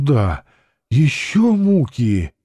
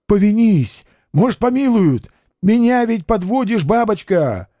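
fussy pleading; 9 semitones higher than usual. A narrator's reading. Watchman urges her into ear.

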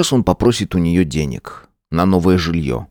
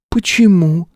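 higher woman's voice, reproachful; Sveta's voice; 11 semitones higher, slower than usual. Acted. Sveta reminds her boyfriend he promised, in a higher reproachful woman's voice. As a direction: play the young woman pushing back.

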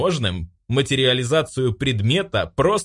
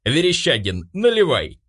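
put-on drunken shout; 6 semitones higher than usual. Drunk Vlad yells at the narrator to pour. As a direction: yell for the next round, drunk. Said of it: "пьяно выкрикнул он мне".

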